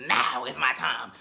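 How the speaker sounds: a hint of Latasha claiming the moment; imitating Latasha. Imitating Latasha seizing the spotlight after the fight, slow and deliberate. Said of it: "she just was like".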